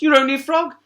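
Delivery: very high, loud princess; scornful princess. A narrator's reading. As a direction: look down your nose. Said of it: "retorted the princess".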